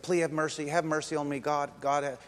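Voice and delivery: mildly acted begging; understated imploring; pleading. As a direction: plead repeatedly for mercy. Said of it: "he begged and he pleaded".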